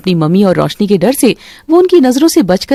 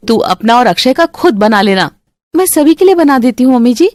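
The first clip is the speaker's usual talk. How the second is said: put-on lightly raised, pleading young wife; gentle daughter-in-law. Shalini begging her mother-in-law to let her cook, lightly pleading.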